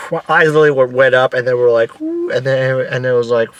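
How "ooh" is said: soft, high-pitched swooping "ooh"; small falsetto coaster cry; rider's high "ooh". Retold or imitated.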